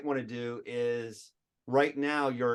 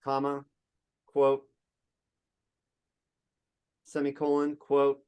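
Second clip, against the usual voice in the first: dictating. Shown as a demonstration. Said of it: "dictating code symbols".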